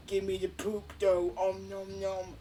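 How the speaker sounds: lightly voiced hungry slime; munch out the words like a gluttonous blob; greedy slime. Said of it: "they're like".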